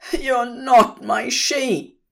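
high, anguished exclamation; distressed cry. A narrator's reading. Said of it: "Crowley cried".

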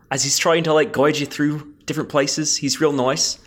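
put-on Irish accent. Co-host describing the guide character, mock Irish accent. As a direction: slip into a playful Irish accent. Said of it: "a nice Irish accent".

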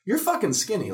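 emphatic insisting. Retold or imitated. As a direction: insist he's skinny now.

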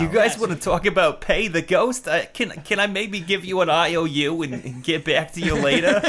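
lightly voiced whiny roommate; a hint of Kyle's voice; Kyle impression. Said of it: "doing a perfect Kyle".

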